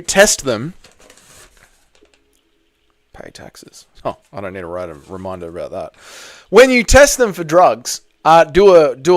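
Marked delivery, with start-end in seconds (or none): 3.1-6.0 different timbre, softer, faster; like an assistant device chiming in. Real, not acted. Overlaid robot reminder voice.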